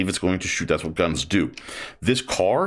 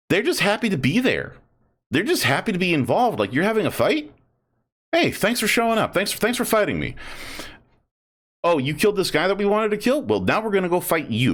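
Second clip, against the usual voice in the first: cheerful orc; 9 semitones higher than usual. Retold or imitated. Gushing voicing happy orcs.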